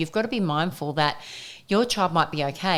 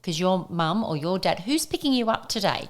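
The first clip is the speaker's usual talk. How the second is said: soothing; 3 semitones higher than usual. Retold or imitated. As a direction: reassure a little one gently. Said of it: "just going".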